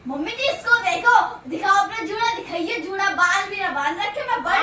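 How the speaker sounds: high, loud whiny complaint; loud complaining. Acted. Daughter-in-law loudly complaining to mother-in-law about her sister-in-law.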